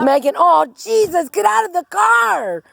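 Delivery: rising, frightened plea to get out; scared plea. Real, not acted. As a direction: beg her out, spooked. Scared by birds, pleading.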